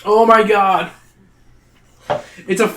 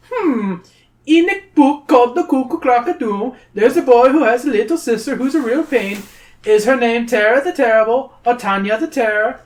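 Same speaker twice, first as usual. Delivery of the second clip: sly troll; 8 semitones higher, 4 dB louder than usual. Acted. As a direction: tempt them like a greedy little troll. Troll asks question.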